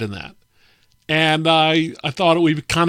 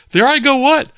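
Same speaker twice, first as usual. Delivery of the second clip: louder puzzled retort; 9 semitones higher, 6 dB louder than usual. Retold or imitated. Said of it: "And I was like".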